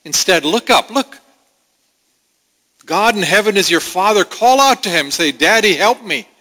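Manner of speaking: a hint of a tender, rising appeal; lightly voiced Holy Spirit reassuring a believer; Spirit's voice. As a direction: voice the Spirit urging the child to look up. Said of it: "the Holy Spirit says".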